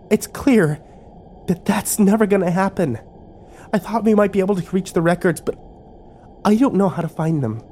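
high-pitched, mildly dismayed admission; sighing resignation. A narrator's reading. Kimber admits the records are out of reach, sighing resignation. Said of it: "Kimber sighed".

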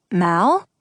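put-on young child caller. A narrator's reading. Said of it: "a young voice said".

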